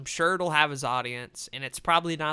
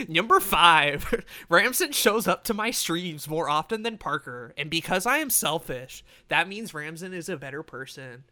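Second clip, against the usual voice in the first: hyped gamer bro; 4 dB louder than usual. Pretend. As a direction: sell it like a gamer countdown. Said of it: "let me do like a gamer voice".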